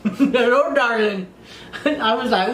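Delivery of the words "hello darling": put-on laughing Irish-accent greeting; mock Irish accent. Client greeting his darling, mock Irish accent. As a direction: do a playful bad Irish lilt. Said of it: "he sounded way sexier than that".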